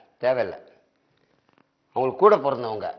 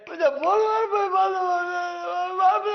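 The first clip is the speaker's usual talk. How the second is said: hammed-up crying, voice cracking much higher; comic sobbing. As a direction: blubber the words through fake tears. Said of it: "அழாம சொல்றேன்". (மிகையான நகைச்சுவை அழுகை)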